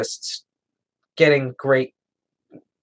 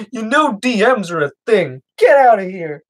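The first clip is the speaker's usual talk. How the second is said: a light, higher attempt at Cameron's Scottish accent; half-hearted Scottish accent, mocking a friend's retort; Scottish impression; 6 semitones higher, 4 dB louder than usual. Teasing the Scottish friend by imitating him, in a weak Scottish accent. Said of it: "that's not even remotely how he talks".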